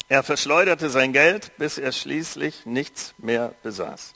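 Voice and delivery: measured storytelling read to a congregation; story narration for a church audience; Bible reading. A narrator's reading. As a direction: read the parable evenly, like scripture. Reads Bible story aloud.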